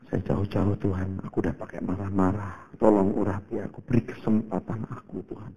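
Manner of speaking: soft, humble plea for anointing; hushed begging prayer; quiet prayer. Retold or imitated. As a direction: pray quietly just before going on. Retelling a quiet prayer before preaching.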